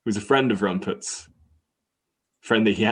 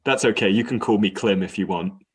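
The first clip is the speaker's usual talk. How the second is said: voice of the dog; 3 semitones higher than usual. Acted. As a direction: play the dog, kindly, cracking into a laugh. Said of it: "And dog says".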